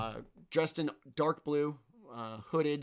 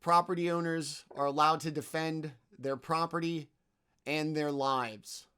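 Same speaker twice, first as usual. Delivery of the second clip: a touch of official authority; commanding voice; 4 semitones higher, 4 dB louder than usual. Acted. Hooded thief defends the claim to the party, lightly commanding. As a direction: lay down the law, slowing to a close. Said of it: "in a commanding voice".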